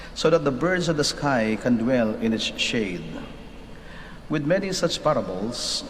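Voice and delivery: solemn scripture reading; gospel reading. Acted. Reads the gospel aloud.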